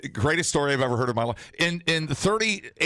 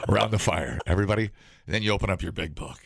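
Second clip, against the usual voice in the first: hushed creepy legend telling; 3 semitones lower than usual. Pretend. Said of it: "retell this story like a Christmas poem".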